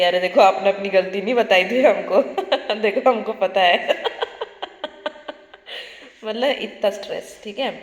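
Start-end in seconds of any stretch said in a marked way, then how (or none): 0.0-2.2 mock scolding office bosses, louder and laughing; laughing, hammed-up "see, your mistake" scold. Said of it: "आप ही को बोलेंगे कि". 2.8-3.8 mock scolding office bosses, louder and laughing; laughing, hammed-up "see, your mistake" scold. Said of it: "आप ही को बोलेंगे कि".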